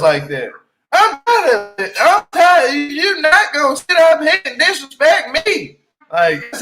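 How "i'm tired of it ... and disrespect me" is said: higher and louder, exasperated; sick of him, voice jumping up; fed-up outburst. Real, not acted. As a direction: let the frustration boil over at him. Ranting at Mike's yelling.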